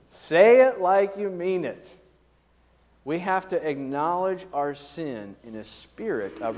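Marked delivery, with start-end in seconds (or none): 0.1-1.9 slow, higher-pitched parental demand; insistent parent. Acted. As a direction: draw it out as an exasperated parent's order. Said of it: "parent has said this".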